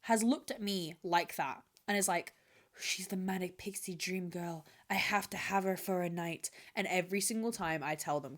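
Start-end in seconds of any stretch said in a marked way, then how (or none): 2.8-6.5 mimicking men. Men's thoughts voiced.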